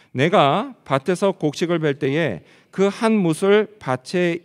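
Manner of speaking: slow, measured congregational Bible reading; scripture reading. Acted. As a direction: read the verse out loudly and deliberately, phrase by phrase. (성경 봉독하듯 느리고 또박또박)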